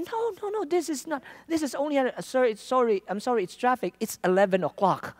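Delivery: high-pitched flustered pleading; pleading protest. Retold or imitated. Preacher retelling how he protested the taxi fare, high and flustered.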